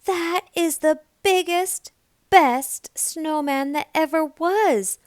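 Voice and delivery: Big Mama praising. A narrator's reading. Big Mama praises Nell's snowman. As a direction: proclaim it grandly. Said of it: "said Big Mama".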